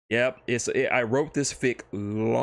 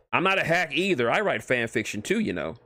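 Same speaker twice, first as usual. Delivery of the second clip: offended Deadpool; 3 semitones higher than usual. Acted. Deadpool snapping back at the author, mildly indignant. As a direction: bristle at being called a hack.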